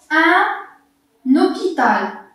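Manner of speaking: "un hôpital" drawn out slowly, n linked to o; slow demo. Shown as a demonstration. Teacher reading an example word slowly. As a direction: spell out "un hôpital" syllable by syllable.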